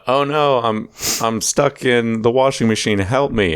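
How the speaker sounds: lightly voiced helpless girl; mock damsel in distress.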